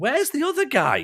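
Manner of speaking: high, confused squeak with laughter in it.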